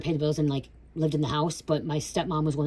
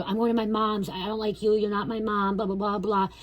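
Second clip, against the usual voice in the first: put-on defiant kid retort; 5 semitones higher than usual. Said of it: "I'd go".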